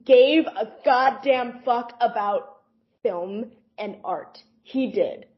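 normal talking voice

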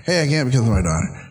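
a hurried throwaway excuse; quick brushed-off excuse. Shown as a demonstration. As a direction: rattle it off like a brush-off. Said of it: "not just say".

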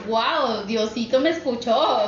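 retold wonder, drawn out; emocionada. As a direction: relive a touch of grateful amazement, stretching the words. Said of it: "de la emoción de que dije".

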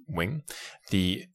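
ordinary talk

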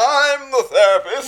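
very high, loud, drawn-out declaration; hammed-up self-important therapist; superior therapist. Mocking a superior therapist talking over clients, pompous high shout.

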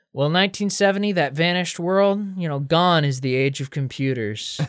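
hammed-up fond reminiscence; mock nostalgia. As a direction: reminisce like an old sage.

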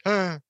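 wordless grunt; short mock grunt in place of an answer; Batman. Hero answering Robin without words, mock grunt. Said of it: "Batman just makes noises".

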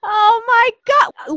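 real delight, stretched out high; gushing, drawn-out awe; excited. Real, not acted. Host hears about waterskiing.

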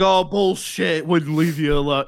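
slow, blustering imitation of a proud grandfather; macho denial. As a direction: brush it off like a tough old man. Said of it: "Trying to act all macho".

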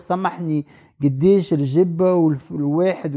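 unhurried Tunisian Arabic shop request; full polite phrasing. Shown as a demonstration. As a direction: ask the price the long, polite way. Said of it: "Je vais pas dire".

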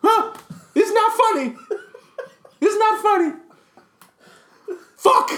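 high, loud, laughing; laughing in disbelief. Real, not acted. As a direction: laugh through the words. Laughs at his own fear.

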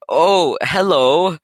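put-on high slow quavering old man. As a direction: greet like a frail old man. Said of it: "I've never done an old man voice".

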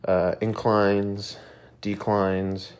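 blocked nose, a bit congested; stuffy nose. Real, not acted. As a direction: talk through a stuffy nose. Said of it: "Sorry if I sound a little stuffy".

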